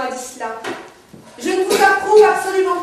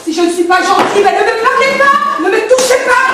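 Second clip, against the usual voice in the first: raised, higher-pitched protest; angry rebuff; 4 semitones higher, 4 dB louder than usual. Acted. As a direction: push them away with your voice. Quarrel, pushing the others away. (protestation agacée, voix qui monte)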